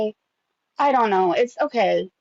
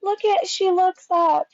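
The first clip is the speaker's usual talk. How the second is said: excited squeal; 11 semitones higher than usual. Real, not acted. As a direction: gush over the dog looking up. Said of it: "I love this part".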